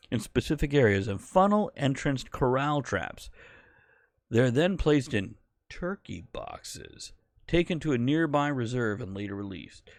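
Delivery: projected mock newsreader; newscast voice. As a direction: read it out like a news anchor. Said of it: "my newscast voice".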